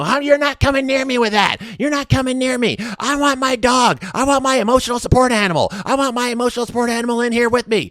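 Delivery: high, screechy mock of a panicking patient; mocking the screaming patient who wants her dog; mocking hysterical patient. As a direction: whine it way up high like a hysterical lady. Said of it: "she's just screaming about".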